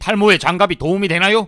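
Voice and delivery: high, carrying question; too loud. Acted. Clerk ignoring customer's plea for discretion, too loud. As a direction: ask it so the whole shop hears. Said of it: "좀 조용히 좀 해주세요".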